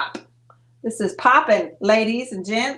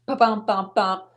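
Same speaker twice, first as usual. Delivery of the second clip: vocal drumroll. Shown as a demonstration. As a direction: sound out a little drum flourish. Imitates a fanfare before reveal.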